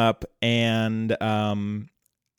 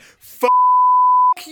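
mock angry shout; 7 dB louder than usual. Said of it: "they'd be like".

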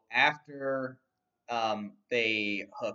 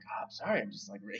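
weirdly giddy; 6 dB quieter, faster than usual. Retold or imitated. Simon apologizes to Frank's group, weirdly giddy. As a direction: retell a giddy, stumbling apology. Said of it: "weirdly giddy".

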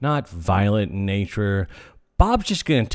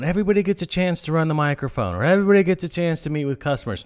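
higher, fast chirpy mock of a cheery boss; mocking manager; 5 semitones higher, faster than usual. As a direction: parody a naive upbeat manager.

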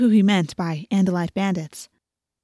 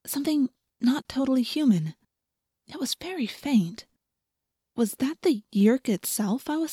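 hushed, wondering; 4 semitones higher, 4 dB quieter than usual. A narrator's reading. Cat-girl narrating a faint strange smell, hushed and wondering.

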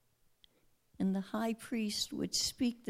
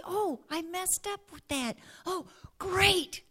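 wry dismay; 7 semitones higher than usual. Retold or imitated. Believer noticing own sin.

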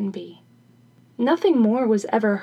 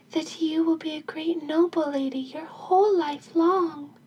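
higher, lightly voiced fairy; a hint of a fairy, pitched up; third fairy's blessing; 6 semitones higher than usual. Third fairy grants a noble life, higher blessing voice.

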